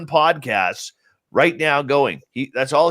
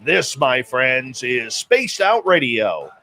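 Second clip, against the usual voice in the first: big, theatrical show-opening voice; radio show announcer. Acted. Host opening Spaced Out Radio to listeners worldwide, announcer voice.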